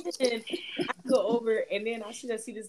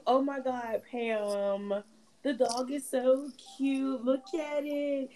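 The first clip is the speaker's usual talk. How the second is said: gushing friend; 4 semitones higher, much slower than usual. Retold or imitated. Friend gushing over shelter dog.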